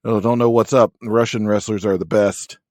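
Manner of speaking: loud mock wrestler promo, no Russian accent; unconvincing fake Russian. Host mocks Crusher Khrushchev's promo, loud unconvincing Russian act. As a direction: boast loudly as a badly faked Russian. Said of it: "doesn't even attempt to put on, like, a shitty Russian accent".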